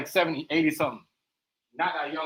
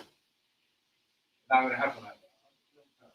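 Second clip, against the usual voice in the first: "not" stretched, whole line very slow; slow, weighty refusal; drawn-out; 2 semitones lower, much slower than usual. Pretend. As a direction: spell it out very slowly. Repeats the line slower and drawn out.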